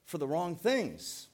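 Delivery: earnest rebuke. Retold or imitated. Pastor voicing Jesus telling the crowd, slow earnest rebuke. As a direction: lay it out slowly like a firm but caring teacher. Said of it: "He told them".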